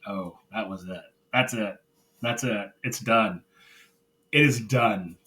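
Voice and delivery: understated finality, starting low and hushed; mildly ominous retold verdict; grave realization. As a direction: let it sink in that it's over. Retold grave reaction to the breakup.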